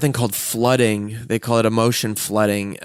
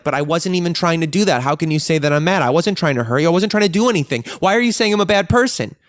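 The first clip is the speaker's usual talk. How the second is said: upset defensive protest; 6 semitones higher than usual. Retold or imitated. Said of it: "anger because".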